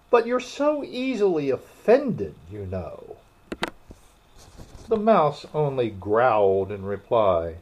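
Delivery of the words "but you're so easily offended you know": high-pitched plaintive protest; pleading. A narrator's reading. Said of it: "pleaded poor Alice".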